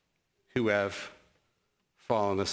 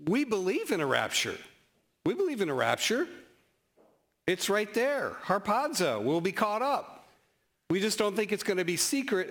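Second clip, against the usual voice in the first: friendly rebuttal; 5 semitones higher than usual. Retold or imitated. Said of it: "I can say to those brothers and sisters".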